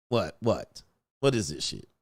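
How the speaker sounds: quiet, low, disbelieving; low suspicious mutter. Retold or imitated. Comedian mutters at two women approaching him. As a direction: mutter warily under your breath. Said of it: "I'm like".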